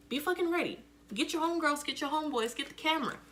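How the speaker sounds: imitating kids hyping a school fight; mock hype call. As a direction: pump up the crowd like a hype man. Mock hype announcer to peers.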